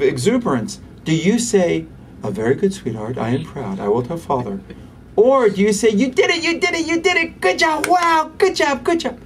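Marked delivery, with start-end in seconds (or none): 2.2-4.6 a lightly stiff, formal parent; stiff formal praise. Shown as a demonstration. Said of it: "That's toddlerese". 5.9-9.2 much higher, gushing praise; excited toddlerese. Shown as a demonstration. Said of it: "That's toddlerese".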